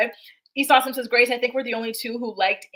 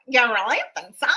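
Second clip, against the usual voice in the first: lightly imitated Minnesota accent; mock Minnesota accent. Complaining about a dating show contestant's voice, mock Minnesota accent. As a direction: mimic a grating Minnesota talker. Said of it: "The way he talks, uh, is like nails on a chalkboard".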